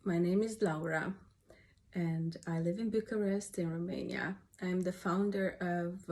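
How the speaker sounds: stuffy, nasal voice from a cold. Real, not acted. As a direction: speak through a blocked nose. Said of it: "really nasal voice".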